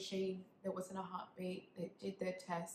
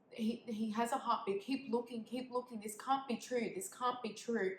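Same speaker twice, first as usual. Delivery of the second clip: raised, urgent voice, short of screaming; retold desperate protest; 3 semitones higher, 3 dB louder than usual. Mother refusing the doctor's news, retold desperate protest. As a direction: insist desperately, pitch lifted. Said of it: "I was screaming".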